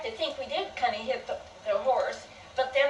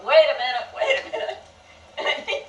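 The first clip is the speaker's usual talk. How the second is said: retold yell; 4 semitones higher, slower than usual. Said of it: "Dad yelled".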